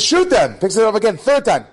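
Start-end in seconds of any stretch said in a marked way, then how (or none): 0.0-0.5 loud, high barked command; officer's order. Retold or imitated. Officer again ordering the soldier to fire, barked. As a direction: repeat the order harder. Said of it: "He says".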